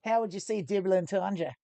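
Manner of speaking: playful Australian accent attempt; fake Aussie accent. Streamer prompting co-host, fake Australian accent. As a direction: ask it in put-on Aussie. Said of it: "doing my fake Aussie accent".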